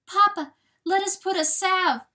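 put-on high, loud young fawn pleading; worried fawn. A narrator's reading. Fawn offering Papa a salve, high plea.

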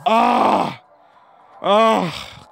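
high exasperated "ah"; frustrated cry. Real, not acted. Player just beaten by computer, frustrated cry. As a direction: cry out in frustration, voice falling away. Frustrated after losing the race.

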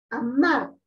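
"amar" with the final syllable weighted, a-MAR; stress on MAR. Shown as a demonstration. Teacher repeats for the class, "amar" stressed on the last syllable. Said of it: "donde tiene mayor fuerza de voz es mar".

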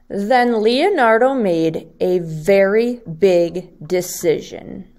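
lively storybook reading for second graders; reading to children. Acted. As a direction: read it like story time for little kids. Teacher reads picture book aloud.

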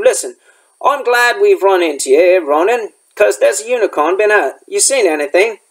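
lightly voiced rustic gamekeeper; a hint of country dialect, asking for news; Hagrid.

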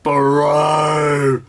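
loud outraged cry; shouting. Real, not acted. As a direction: yell it at the screen. Outraged at the show.

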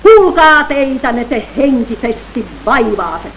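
loud, high proclaiming shout; high, loud solemn shout; shouting with great force. Acted. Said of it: "huuti suurella voimalla".

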